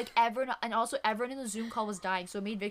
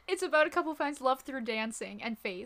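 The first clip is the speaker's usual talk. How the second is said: words pushed out through real laughter; giggling while reading the line out; cracking up mid-sentence; laughing through it. Real, not acted. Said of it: "And I lost it".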